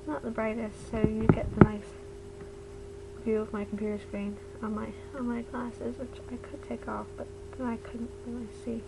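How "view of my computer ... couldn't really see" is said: slightly lisped speech around a retainer; wearing a retainer. Real, not acted. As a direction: talk with a retainer in your mouth. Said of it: "excuse how I'm talking, 'cause I have my retainer in".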